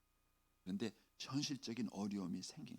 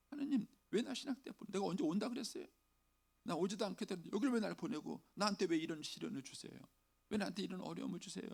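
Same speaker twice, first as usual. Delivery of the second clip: much higher, fast protest at God; arguing with God; 6 semitones higher, faster than usual. Retold or imitated. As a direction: protest to God, voice pitched high. (하나님께 따지듯 높은 목소리로)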